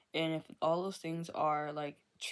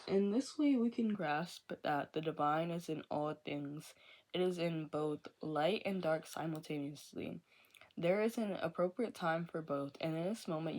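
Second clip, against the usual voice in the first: reading from book. Acted. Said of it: "It says".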